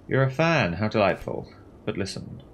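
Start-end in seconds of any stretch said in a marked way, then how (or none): 1.8-2.4 hushed whisper. Acted. Gossip whispering a secret to her companion. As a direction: lean in and whisper it. Sharing a secret about commander.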